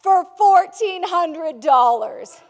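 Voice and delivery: loud, slow, drawn-out big reveal; slow price reveal. Retold or imitated. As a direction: drop the price like a punchline. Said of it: "he says".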